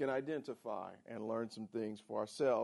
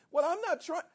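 exasperated protest; 6 dB louder than usual. Acted. Acted spouse quarrel, husband protests.

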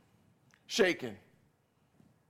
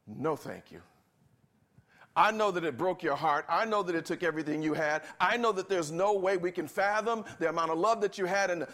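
mock polite refusal. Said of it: "or they can say".

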